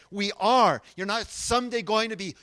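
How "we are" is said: ARE punched louder; emphatic. Retold or imitated. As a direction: land hard on the word "are". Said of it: "and he's emphatic".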